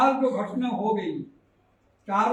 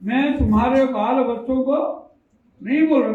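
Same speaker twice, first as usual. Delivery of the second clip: louder, emphatic repeat of the quote; preacher repeats Moses' words louder so the people take note; 5 dB louder than usual. Shown as a demonstration. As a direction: drive the line home to the congregation. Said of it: "ध्यान दीजिए".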